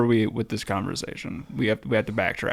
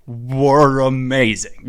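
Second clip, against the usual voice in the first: slow drawn-out emphasis; 7 dB louder, much slower than usual. Shown as a demonstration. Repeating the phrase for a friend who asked, slow and savoring. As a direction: stretch "Were amazing" slowly, louder. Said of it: "How'd that go?".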